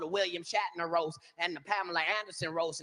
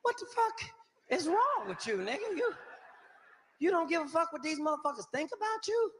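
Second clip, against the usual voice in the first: high, disbelieving outburst; can't believe what he's hearing; incredulous yell; 7 semitones higher than usual. Retold or imitated. Comic yelling at Flav in the trailer, high and incredulous. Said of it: "I was like".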